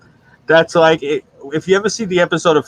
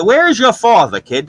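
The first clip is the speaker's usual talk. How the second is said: put-on louder and higher, a stranger barking at a kid; scolding stranger; 8 semitones higher, 4 dB louder than usual. Old-timer scolding a kid on the street, loud and higher. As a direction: demand where his father is, like an angry neighbor.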